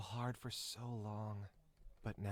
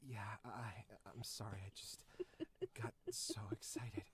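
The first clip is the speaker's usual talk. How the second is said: bashful Jack; faster than usual. Acted. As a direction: sound caught out and shy. Jack's voice, apologetic.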